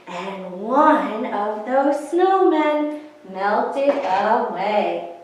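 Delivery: put-on lilting rhyme read to small children; sing-song counting rhyme. A narrator's reading. Librarian reciting a snowman rhyme to children, sing-song. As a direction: bounce the rhyme for the kids at storytime.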